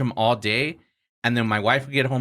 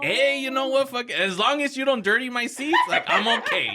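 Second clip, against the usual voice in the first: much higher, amused shrug of a voice; laughing resignation; 10 semitones higher than usual. Retold or imitated. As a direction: give up with a laugh. Resigned to couple in back.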